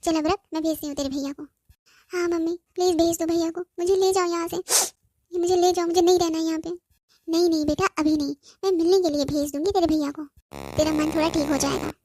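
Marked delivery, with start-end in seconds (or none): 2.1-6.7 crying. Acted. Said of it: "तू ये रोना बंद कर".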